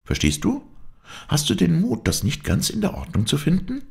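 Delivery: put-on high-pitched, insistent young woman; possessive heroine. Heroine claiming older rights on her lover, insistent. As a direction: claim the lover with lifted, urgent voice.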